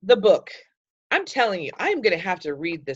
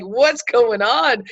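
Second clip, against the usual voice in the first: confused brain; 6 semitones higher, 5 dB louder, much slower than usual. Retold or imitated.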